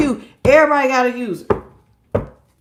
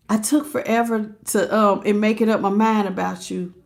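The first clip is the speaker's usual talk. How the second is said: Cross Watcher's voice; 4 semitones lower, 5 dB quieter than usual. Acted. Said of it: "in the Cross Watcher's voice".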